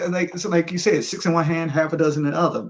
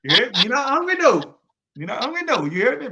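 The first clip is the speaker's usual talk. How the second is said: New Orleans street talk; 9 semitones higher than usual. Pretend. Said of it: "I don't catch as much accent off of Chaz".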